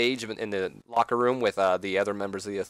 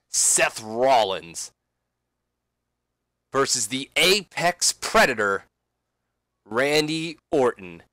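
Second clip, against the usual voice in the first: Sting announcing. Acted. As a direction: draw out the names like a reveal. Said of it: "And then Sting says".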